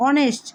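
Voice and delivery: অনেস্ট with silent H, starting on "o". Shown as a demonstration. Teacher repeating the word for pupils, silent H. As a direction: drop the H and open অনেস্ট on the vowel. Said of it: "এইচ এর উচ্চারণ".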